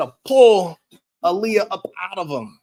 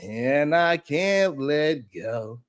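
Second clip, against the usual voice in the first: mocking whiny quote; much slower than usual. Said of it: "They turning me".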